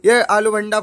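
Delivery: high, loud indignant arguing; loud protest. Real, not acted. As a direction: object loudly that it doesn't count. Arguing that she broke the rule.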